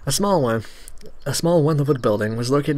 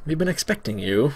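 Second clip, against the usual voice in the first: ominous greeting; 3 semitones higher than usual. Shown as a demonstration.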